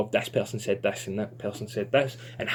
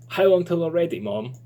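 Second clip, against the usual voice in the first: put-on a higher, louder child asking; eager child; 5 semitones higher, 5 dB louder than usual. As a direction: whine a little, impatient for pancakes. Child voiced in read story.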